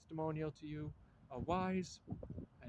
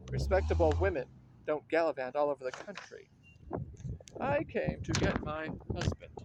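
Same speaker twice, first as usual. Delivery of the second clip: angry loud retort; 7 dB louder than usual. Acted. Wife shouting back at the dancer in anger. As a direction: hurl the insult back at her. Women quarrel over respectability.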